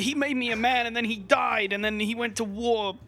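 mock sob story. Mocking Italian owner's sob story.

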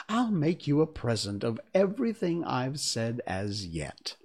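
put-on fussy old duchess; frail withering duchess. Duchess speaking to Alice.

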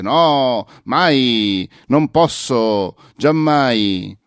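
enfatico, melodrammatico, con "non posso" lento; rifiuto teatrale. Retold or imitated. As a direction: nega tutto come un nobile offeso. (rifiuto drammatico esagerato)

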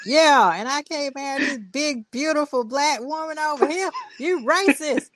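high, indignant mock redneck; redneck white guy. Redneck homeowner accuses the agents, high indignant impression. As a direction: play an outraged redneck, pitched well up. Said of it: "like he's some redneck white guy".

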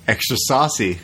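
driver's line through a laugh; a cheeky quote broken by a laugh. Retold or imitated. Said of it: "he looks at you and he goes".

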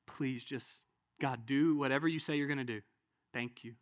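low, soft plea; humble prayer. Acted. Believer yielding to God, softly prayerful. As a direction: pray it quietly, with pauses.

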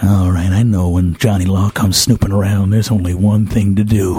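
1930s gangster. Acted. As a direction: threaten like an old movie mobster. Gangster threatens the fireman.

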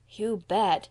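"You bet" said firmly, with weight on "bet"; emphatic. A narrator's reading. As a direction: punch "bet" like a convinced child. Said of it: "said Davy emphatically".

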